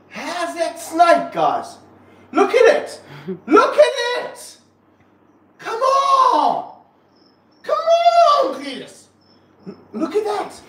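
very high, loud, squealing excitement; ecstatic amazement. Real, not acted. Snake handler showing viewers the climbing snake, ecstatic amazement. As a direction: shout in delighted disbelief, pitch soaring.

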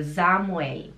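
"Samuel" ending in a clear L; L on the palate. Shown as a demonstration. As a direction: say "Samuel" as ZA-mu-el, tongue up at the end. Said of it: "O L no céu da boca".

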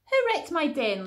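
put-on high, loud little-girl squeal; child shrieking about her wrecked den. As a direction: squeal it like an upset small girl. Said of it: "little Emily squealed".

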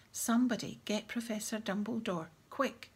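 put-on head boy calling for help, sharp and loud; sudden sharp order. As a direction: snap out an urgent order. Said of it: "in a sudden sharp voice".

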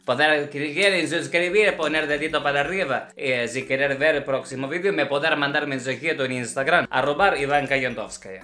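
Russian ballet teacher speaking broken Spanish; thick Russian accent in Spanish; acento ruso. Acted. (maestra de ballet con acento ruso)

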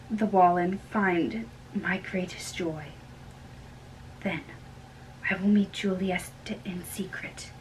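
hushed plea. Acted. Secret plan to the nurse.

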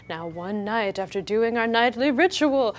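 slow, dragged-out spooky vampire voice. Acted. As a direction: read it like a lurking vampire. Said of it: "like, vampire voice there for a second".

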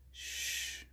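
soft breathy hush; whisper. A narrator's reading. Freddie hushing Nut behind the bush, whispered. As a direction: hush her without a sound. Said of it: "whispered Freddie".

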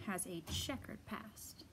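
whispered aside, secretive. Acted. Narrator confiding the blanket's secret, whispered.

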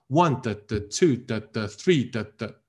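"One", "two", "three" as beats, each trailed by two weak 的; rhythmic stress on "One", "two", "three". Shown as a demonstration. Teacher demonstrates weak-form rhythm, stressed "One", "two", "three". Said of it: "跟弱读配合产生节奏".

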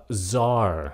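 CZAR slowly, as "zar"; silent C. Shown as a demonstration. Teacher models the word, slow CZAR with silent C. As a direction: stretch CZAR, starting straight on Z. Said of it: "Âm C nó câm".

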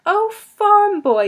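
hammed-up haughty surprise; affected surprise. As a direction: gush over farm boy in mock discovery. Mock surprise, affected pretence.

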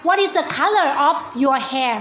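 very slow, each word spelt out clearly; slow teacher English. Shown as a demonstration. Teacher to young pupils, very slow clear English. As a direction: drag the question out word by word for kids. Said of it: "teacher quizzing young pupils".

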